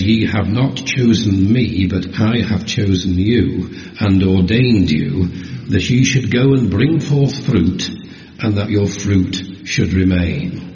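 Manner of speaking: slow, measured Bible reading; scripture reading. Acted. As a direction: read the verses with weight. Reads John fifteen.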